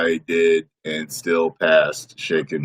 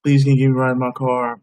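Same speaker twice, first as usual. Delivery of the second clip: pleading plea; 5 semitones higher, faster than usual. Retold or imitated. Voicing woman pleading.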